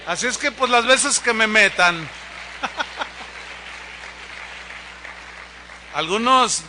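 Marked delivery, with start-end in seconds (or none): 2.0-5.9 soft unvoiced chuckle; breathy laugh. Real, not acted. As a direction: laugh quietly into the mic. Laughs after joke. (risa suave sin voz)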